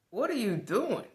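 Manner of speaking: calling out. Retold or imitated. Coworkers call to him on the sidewalk, loud. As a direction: shout it from the car.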